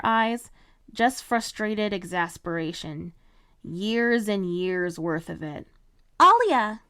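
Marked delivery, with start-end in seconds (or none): 6.2-6.8 loud high call across the hall. Acted. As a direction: call her name from afar. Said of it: "someone called out".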